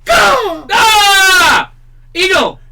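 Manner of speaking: shrill screeching bird cry; eagle screech. Pretend. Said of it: "Squeal like a pig".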